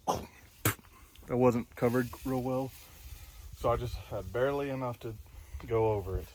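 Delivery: slightly winded, breathing hard. Real, not acted. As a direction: talk while catching your breath. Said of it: "that's why I'm a little out of breath".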